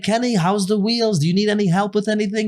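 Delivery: high, quick English-accented imitation; chummy put-on English accent. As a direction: play an English salesman phoning to check in. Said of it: "the guy's got an English accent".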